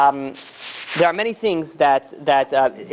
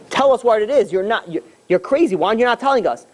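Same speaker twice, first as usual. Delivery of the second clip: raised pitch, mildly acted exasperation; retold angry demand; 4 semitones higher than usual. Robber pressing a rabbi for the money, mock angry.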